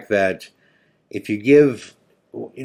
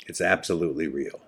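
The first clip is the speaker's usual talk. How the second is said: quiet reveal; 4 semitones lower, 6 dB quieter than usual. Retold or imitated. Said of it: "He paused again".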